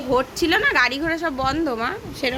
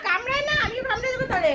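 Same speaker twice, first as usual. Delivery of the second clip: 1 playful mock threat; 11 semitones higher, faster than usual. Playful threat to biting toddler.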